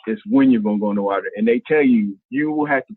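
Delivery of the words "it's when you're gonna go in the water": WHEN picked out against if; stress on when. Retold or imitated. Retelling Pat's speech on whitewater rafting, stress on WHEN. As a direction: lean on WHEN, hurry through the rest.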